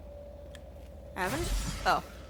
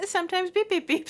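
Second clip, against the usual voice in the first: quoting James; 8 semitones higher, 4 dB louder than usual. Retold or imitated. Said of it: "says James".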